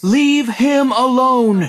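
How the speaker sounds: commanding chorus. A narrator's reading. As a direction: boom it out as a protective crowd. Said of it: "Other voices said, all at once".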